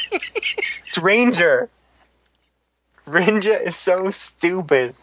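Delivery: exasperated, stretched-out words; instant anger. Real, not acted. Co-host fed up with a mangled word, exasperated. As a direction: drag out each complaint in irritation. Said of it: "It's like instant anger".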